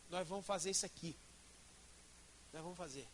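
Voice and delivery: low, soft-spoken mock insistence; insistent husband. Husband imposes his desire on wife, quietly insistent. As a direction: lay down the decision quietly, as an acted husband.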